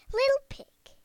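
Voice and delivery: wolf's soft whisper, high. A narrator's reading. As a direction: whisper it sweetly, faking kindness. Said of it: "he said in a soft voice".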